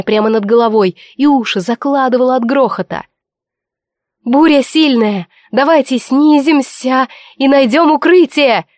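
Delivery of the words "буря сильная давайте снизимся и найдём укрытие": shouting. Acted. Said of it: "выкрикнула я".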